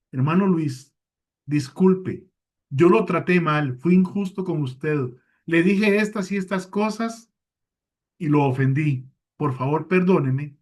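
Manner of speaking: plain, earnest sorry that owns the wrong; sincere planned apology. Shown as a demonstration. Preacher modeling the right apology to brother Luis, sincere and direct. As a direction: apologize straight and honestly. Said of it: "En cambio, si lo planifico antes".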